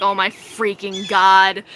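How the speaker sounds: slow, low drawn-out exclamation; retold stoned awe, stretching the words; dazed amazement. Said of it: "as soon as the stuff kicked in".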